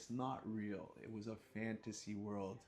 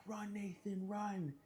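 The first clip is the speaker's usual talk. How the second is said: high, hushed urging; lightly voiced worried friends; 10 semitones higher, slower than usual. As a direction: tell him to flee. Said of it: "They're like".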